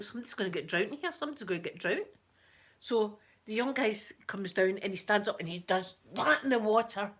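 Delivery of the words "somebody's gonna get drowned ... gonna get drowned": fast, half-laughing worry; laughing nervous inner voice; laughing panic. Retold or imitated. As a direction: giggle through the dread. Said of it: "I'm thinking".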